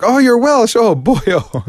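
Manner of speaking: retold high Welsh accent exclamation. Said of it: "and I was like".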